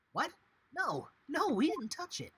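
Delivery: high, loud protest; acted flustered denial, pitched high; alarmed denial. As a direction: protest innocence in a mock panic. Accused character protests innocence.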